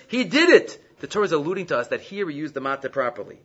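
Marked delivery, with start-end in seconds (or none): 0.1-0.8 "He did it" pitched up for emphasis; raised, decisive stress on "He did it"; emphatic. Shown as a demonstration. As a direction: hit "He did it" as the answer. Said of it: "what's the emphasis?".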